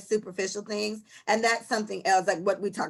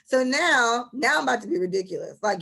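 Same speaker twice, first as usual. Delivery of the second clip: usual speaking voice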